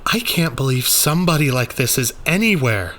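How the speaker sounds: lightly voiced joking; the speaker, dry. The speaker quipping about the creature, dry.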